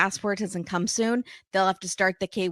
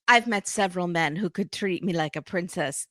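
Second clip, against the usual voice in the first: put-on horrible French accent. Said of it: "This is my horrible French accent".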